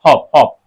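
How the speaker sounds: हॉप with a short clipped vowel; short o demo. Shown as a demonstration. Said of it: "इसको हम हॉप पढ़ते".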